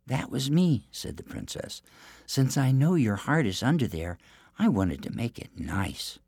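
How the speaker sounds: high, sweet innocent princess; theme park princess. Acted. Princess to giant.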